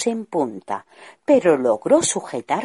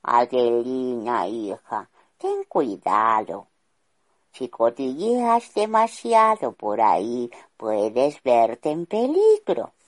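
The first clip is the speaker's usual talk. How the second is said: a lightly voiced king, slow and a little lower; fatherly king's advice; 3 semitones lower than usual. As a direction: counsel his daughter gently, unhurried. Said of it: "le aconsejaba".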